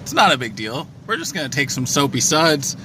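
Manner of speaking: over the roar of a car wash; talking inside a noisy car wash. Real, not acted. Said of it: "We're in the car wash right now".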